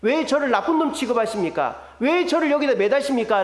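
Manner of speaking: voicing an aggrieved, questioning plea; protesting to God. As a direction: build a mild remonstrance, question by question. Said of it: "하나님께 따지는 것이".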